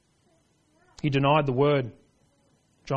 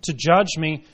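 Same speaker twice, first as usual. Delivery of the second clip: raised, emphatic mock confession; 3 semitones higher, 5 dB louder than usual. Preacher voicing guilty Herod to the congregation, emphatic confession. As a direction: voice an acted confession, building louder to the end. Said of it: "This is a confession".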